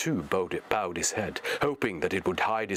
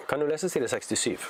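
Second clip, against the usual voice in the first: higher, lightly put-on voice; put-on reading voice; 5 semitones higher, much faster than usual. Reader reads a viewer request, light put-on voice. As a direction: read the comment in a playful voice.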